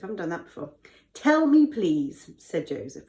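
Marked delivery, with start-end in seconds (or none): 1.1-2.3 pleasant plea without the put-on accent; nice. Joseph asks prisoners for their dreams, being nice. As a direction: ask it nicely, easing off on please. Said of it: "We're being nice about it".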